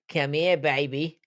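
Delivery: slow, drawn-out mock pickup line; slowly drawn-out mocking imitation of a mate; imitating Leroy. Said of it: "That's how Leroy sounds".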